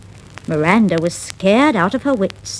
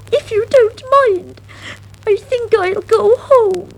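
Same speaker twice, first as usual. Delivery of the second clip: high, louder shaken mouse; upset; 4 dB louder than usual. Acted. Miranda telling her cousin she'll go home, high and shaken. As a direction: plead to go home.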